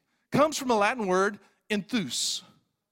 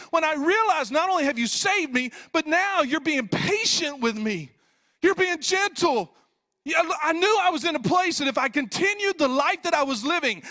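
raised, higher-pitched preacher's delivery; impassioned preaching; 7 semitones higher, 4 dB louder than usual. Acted. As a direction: preach it with rising urgency. Preaches at full force.

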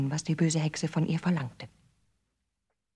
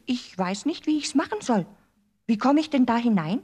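Gretel feigning; 8 semitones higher, 6 dB louder than usual. A narrator's reading. Gretel pretends not to know.

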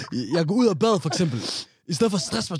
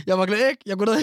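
higher-pitched mock self-talk; efterlignet selvsnak; 5 semitones higher than usual. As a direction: repeat the friend's self-talk in a raised, teasing voice. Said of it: "samtale, du har med dig selv". (drillende efterligning af selvsnak)

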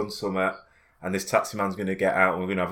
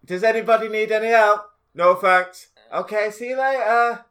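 high, mocking singsong of his friend; mocking friend's voice; 11 semitones higher, 6 dB louder than usual. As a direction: take the mickey out of a mate, pitched high. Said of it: "you said".

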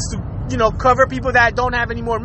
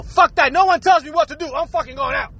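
mock defiant; 2 semitones higher than usual. Mimicking defiant people refusing lockdown.

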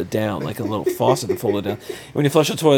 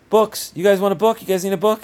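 put-on man doing a high old lady voice; 8 semitones higher than usual. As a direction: pitch up into a sweet old lady. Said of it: "an old lady voice that said".

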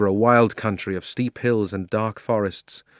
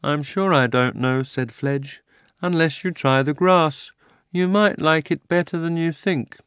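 lightly voiced talking horse; easy, slow horse voice; 6 semitones higher, slower than usual. Fledge speaks.

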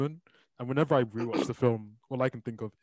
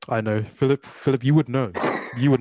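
louder, pointed mock accusation; mock accusing; 6 dB louder than usual. Real, not acted. Host teasing his co-host Philip, loud mock accusation. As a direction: jab at him with a loud you would know.

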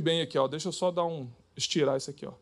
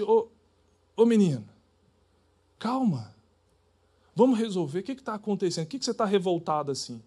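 gentle reply; faster than usual. Shown as a demonstration. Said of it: "fala assim".

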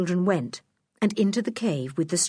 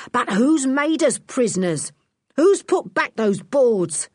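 higher and louder, enraged yell; furious shout; 5 semitones higher, 5 dB louder than usual. A narrator's reading. Trapped thief raging at the unseen enemy, shouting. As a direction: shout it out, beside himself with fury. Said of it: "shouted Lou".

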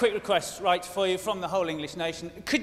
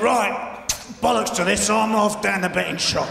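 cheeky Queen Mum; 4 dB louder than usual. Retold or imitated. Queen Mum bolting from duty.

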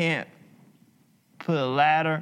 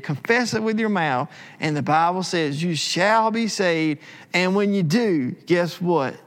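preaching altar call. Acted. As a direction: push it out like a revival preacher. Altar call at full force.

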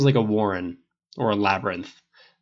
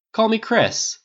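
higher-pitched, friendly insistence; urging; 12 semitones higher, 4 dB louder, slower than usual. A narrator's reading. Harris following Tony as he leaves, urging. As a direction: press him to use the first name. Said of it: "the guy urged".

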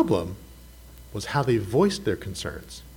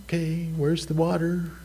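mock impatience; 5 semitones higher, 4 dB quieter than usual. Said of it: "I would be thinking".

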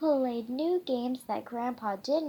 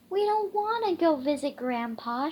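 whiny pups; 4 semitones higher, faster than usual. Acted. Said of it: "whined the young pups".

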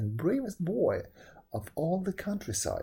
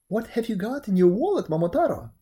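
loud, raised bird character; pheasant voice; 6 semitones higher, 6 dB louder, faster than usual. A narrator's reading. Pheasant asking about the wallet, loud raised voice. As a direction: pipe up loudly as the pheasant.

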